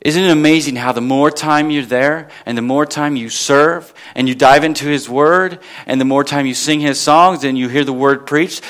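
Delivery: ordinary talk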